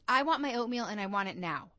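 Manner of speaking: a touch of demanding, want pushed; mock demanding customer. Customer to waitress, mildly demanding. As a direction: lay on the customer's insistence lightly. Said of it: "Like, that demanding".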